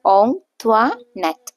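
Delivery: ഓങ് ത്വാനെറ്റ് slowly, split as ong - twa - net; syllable-by-syllable pronunciation. Shown as a demonstration. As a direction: model ഓങ് ത്വാനെറ്റ് in three drawn-out, separated beats. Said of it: "ഈ പേര് വായിക്കുക". (ഓങ് ത്വാനെറ്റ് ഓരോ ഭാഗമായി പതുക്കെ ഉച്ചരിച്ച്)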